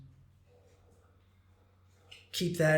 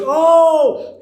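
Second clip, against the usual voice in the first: much higher, loud excited whoop; big hype shout; 11 semitones higher, 14 dB louder than usual. Retold or imitated. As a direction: whoop to fire up the room. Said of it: "And he goes".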